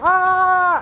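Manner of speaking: mock screaming crowd. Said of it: "everyone's like".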